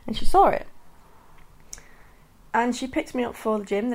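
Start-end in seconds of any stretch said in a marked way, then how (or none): 0.1-0.7 laughing. Real, not acted. Laughing reveal of mum seeing.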